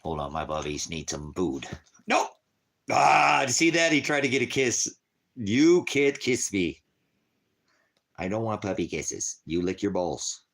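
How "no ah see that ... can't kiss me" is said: startled protest. Real, not acted. Dog tries to lick him.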